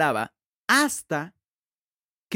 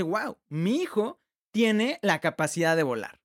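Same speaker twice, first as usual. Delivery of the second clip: astonished father. Retold or imitated. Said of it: "se asombra y dice".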